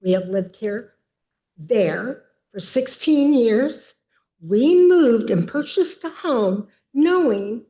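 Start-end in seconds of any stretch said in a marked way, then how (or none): 2.5-7.6 ticked off. Real, not acted. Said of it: "I'm ticked".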